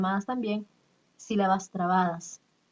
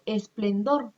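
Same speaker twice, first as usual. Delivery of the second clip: esplendor said slowly, final DOR emphasized; stress on DOR; much slower than usual. Shown as a demonstration. Teacher showing the tonic syllable, stress on DOR in esplendor. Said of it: "Dor va a ser sílaba tónica".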